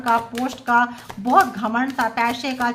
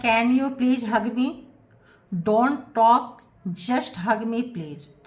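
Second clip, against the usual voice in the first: slow channeled message; much slower than usual. Acted. Tarot reader voicing the partner asking for a hug, slowly. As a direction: relay the plea word by word. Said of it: "कह रहे हैं".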